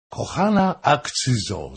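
loud, mocking-sweet address across the room; loud call. A narrator's reading. Fürstenberg scolds Hoym before the king, calling out loudly. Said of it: "zawołał głośno".

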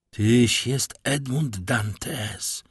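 very slow, understated cry of recognition; stunned cry. Acted. Villefort recognising Edmund Dantes, stunned cry. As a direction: draw it out in shocked recognition. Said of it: "krzyknął Villefort".

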